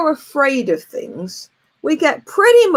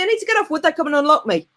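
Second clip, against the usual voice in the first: mock panic; 5 semitones higher, faster than usual. Panic on locked roller coaster.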